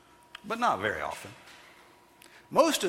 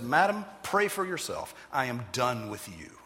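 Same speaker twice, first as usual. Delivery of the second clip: firm rebuke. Retold or imitated. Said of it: "Spurgeon said".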